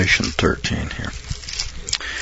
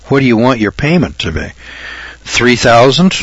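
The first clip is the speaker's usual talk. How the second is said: car salesman. Pretend. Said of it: "Do I sound like a car salesman?".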